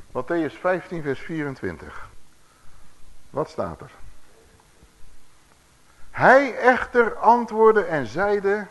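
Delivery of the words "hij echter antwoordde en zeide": slow, solemn Bible reading; scripture reading. A narrator's reading. Preacher reading Jesus' answer to the congregation, slow and solemn. Reads the Bible verse aloud.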